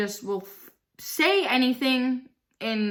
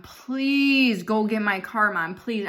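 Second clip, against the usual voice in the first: begging; slower than usual. Retold or imitated. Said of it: "I had to freaking beg her".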